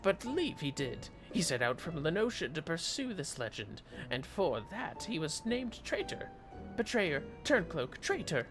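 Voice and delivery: high, loud excitable kobold. Acted. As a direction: squeak it out like an eager little kobold. Voices a kobold NPC's dialogue.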